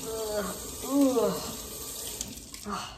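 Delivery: short groans of annoyance; grudging groan. Acted. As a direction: groan over an unwanted chore. Grudgingly doing the dishes.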